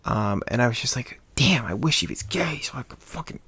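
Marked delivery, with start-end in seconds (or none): 1.4-3.4 retold private wish. Retold private wish about cute guy.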